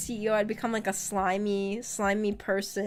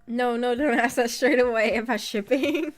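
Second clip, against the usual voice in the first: flustered; 3 semitones higher, 5 dB louder than usual. Real, not acted. Flustered by chat question.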